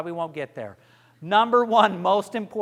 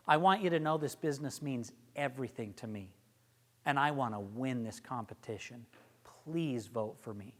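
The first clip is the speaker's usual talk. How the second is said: sincere; 7 semitones lower, 8 dB quieter than usual. Shown as a demonstration. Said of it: "You say it like that".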